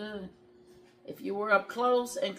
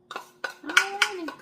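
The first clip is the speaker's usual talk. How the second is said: sing-song alrighty; 11 semitones higher, 8 dB louder, slower than usual. Pretend. Cheerful drawn-out exclamation.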